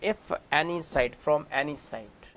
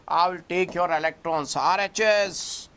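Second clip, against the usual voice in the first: a moderately loud, higher call to both sides; shouting oxygen; 4 semitones higher, 3 dB louder than usual. Acted. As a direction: demand the electrons from left and right, half-shouting. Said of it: "Now he started shouting on both the carbons".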